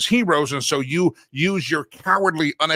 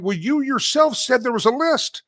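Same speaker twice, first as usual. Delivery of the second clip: higher pleading protest, slowing on the key lines; exasperated public; 6 semitones higher than usual. Retold or imitated. Host voicing the public pleading with the attorney general, exasperated. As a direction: plead with her, fed up. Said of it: "we're all going".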